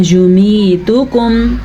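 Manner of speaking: یمیتکم with short "yu", long "mee", short "tu"; correct vowel lengths. Shown as a demonstration. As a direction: stretch only "mee" in یمیتکم. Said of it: "تا کو لمبا نہیں کرنا، یا کو لمبا نہیں".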